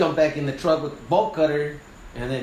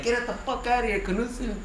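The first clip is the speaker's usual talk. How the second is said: retold yell; 8 semitones higher, 3 dB quieter than usual. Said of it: "And I'm yelling at the window".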